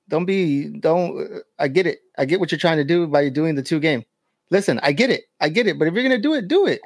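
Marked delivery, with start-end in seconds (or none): 5.8-6.8 emphatic. Real, not acted. Arguing about suspension.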